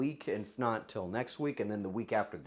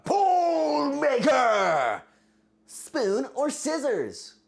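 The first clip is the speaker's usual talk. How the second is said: calling out; 13 semitones higher, 9 dB louder, much slower than usual. Acted. Calling for a poll.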